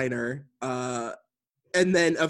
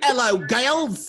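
loud, over-the-top cartoonish Australian accent, pitched way up; 10 semitones higher, 5 dB louder than usual. Quoting a man the speakers are looking up, in a cartoonish australian accent. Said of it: "like a cartoonish Australian accent".

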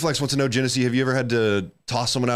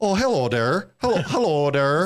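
put-on Swedish accent, much higher pitch; 5 semitones higher than usual. Friends joke about accents and one tries out a swedish accent. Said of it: "that was a Swedish accent actually".

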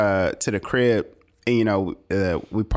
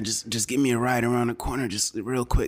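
raspy put-on drug-addict voice, much quieter; 3 semitones higher, 4 dB quieter than usual. Retelling what a woman said, in a raspy drug-addict voice. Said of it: "she had that raspy drug addict voice".

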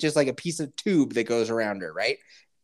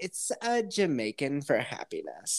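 put-on woman's way of talking, quieter; 6 dB quieter than usual. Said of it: "she just talks like this".

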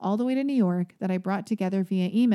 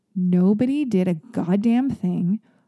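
normal talking voice

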